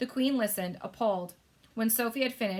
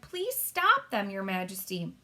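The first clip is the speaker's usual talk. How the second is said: put-on pleading girl Sophie; slower than usual. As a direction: beg the Queen urgently.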